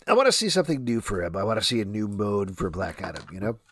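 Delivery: talking with hiccups; hiccupping between words. Real, not acted. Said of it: "You got the hiccups".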